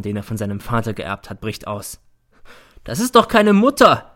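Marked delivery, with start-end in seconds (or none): 2.8-4.1 high, loud furious yell; his temper finally breaks; shouting. A narrator's reading. Son shouting at his mother in court. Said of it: "schreit er".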